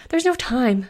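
high, loud desperate wail. Acted. Panicked Bellamy refuses to let Fiona change, wailing. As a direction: cry out in panic. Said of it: "Bellamy wailed".

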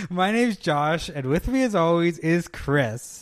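slow, slick salesman pitch; smooth sell like a car dealer; used car salesman. Acted. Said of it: "I'm gonna buy a used car off you now for sure".

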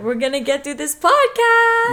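put-on pep despite being tired; rally yourself into hype; pumping up a tired self; mock hype. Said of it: "you better get hype".

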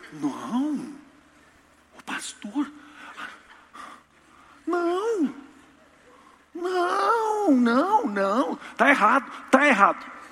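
high, loud horrified protest; indignant protest. Retold or imitated. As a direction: plead with the pastor, shocked and rising. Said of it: "Eu falei". (protesto indignado e agudo, cada vez mais alto)

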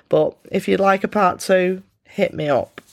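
hoarse, croaky cold voice; croaky voice with a blocked nose. Real, not acted. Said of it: "less snot up my nose and less of a croaky voice".

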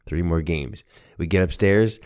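usual speaking voice

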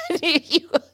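laughing through the words. Real, not acted. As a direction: giggle while saying it. Laughing at partner.

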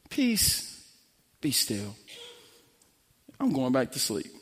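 soft, unhurried command sinking low; calm the storm without raising your voice; quiet authority. Acted. Jesus stilling the storm before sleeping, quiet low authority. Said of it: "authority doesn't have to yell".

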